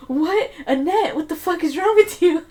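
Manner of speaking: high-pitched incredulous retort; mock shock. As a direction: act out a scandalised reply. Retold shocked reply to coworker.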